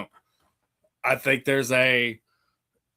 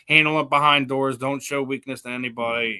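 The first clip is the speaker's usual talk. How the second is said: whiny voice; 4 dB louder than usual. Retold or imitated. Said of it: "in a whiny voice".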